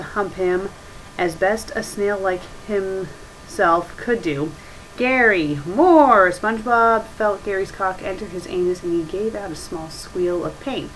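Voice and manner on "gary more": rising, louder call; mock cry out. Reader voicing SpongeBob crying out to his snail. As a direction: call out the name, then push. Character cries out in story.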